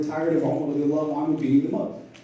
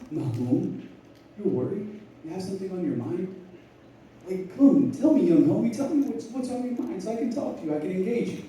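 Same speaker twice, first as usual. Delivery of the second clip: softer, gentle coaxing from a stern man; sincere concern; 4 semitones higher, 4 dB quieter than usual. Retold or imitated. Umar gently urging the worried young man to open up, soft and sincere. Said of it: "he saw the sincerity in Umar's voice".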